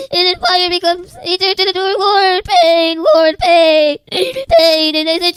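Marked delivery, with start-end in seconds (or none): 2.0-5.0 louder anguished cry of pain; tormented soul. Retold or imitated.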